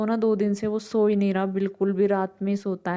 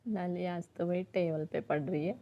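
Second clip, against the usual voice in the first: hushed voice; 2 semitones lower, 10 dB quieter than usual. Real, not acted. Chiku asleep, speaking low.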